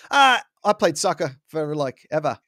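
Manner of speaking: put-on British accent sliding into Australian; muddled British-Australian mock accent; botched British accent. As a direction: badly imitate a British accent. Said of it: "I don't know what the accent this is".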